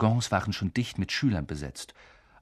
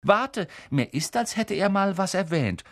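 mock pondering; 10 semitones higher than usual. A narrator's reading. Twin teasing, feigning recollection.

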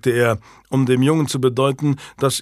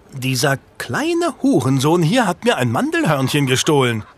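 a lightly voiced angry market baker woman; keifende Bäckerin; 3 semitones higher than usual. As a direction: scold the thief like an outraged baker. Zeternde Bäckerin beschuldigt den Dieb. (leicht gespielte, empörte Bäckersfrau)

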